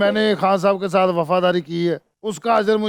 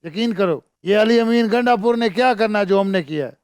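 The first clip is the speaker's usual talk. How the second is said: a put-on KP politician voice, lightly done; mock politician pledging his sacrifices; fake politician voice. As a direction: play the Pashtun politician, a bit hammed-up. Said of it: "कितना जली लग रहा है".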